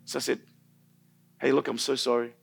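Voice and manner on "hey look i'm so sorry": compassionate apology. Retold or imitated. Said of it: "or to be compassionate".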